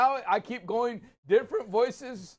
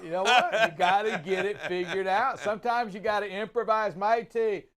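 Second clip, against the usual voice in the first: mock Australian accent; 3 dB louder than usual. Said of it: "I forgot my own voice now".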